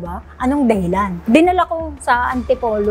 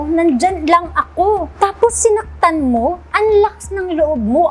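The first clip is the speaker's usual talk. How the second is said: higher and slow, every word weighted; mother scolding the maid, slow and pitched up; angry scolding; 5 semitones higher than usual. Retold or imitated. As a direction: scold slowly. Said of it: "Sabi ko ganun sa kanya".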